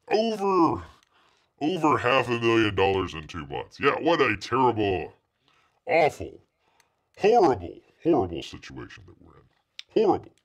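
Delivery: sarcastic, hammed-up dismay; mock outrage. Mocking a rival's losses with hammed-up dismay. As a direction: ham up the horror, tongue in cheek.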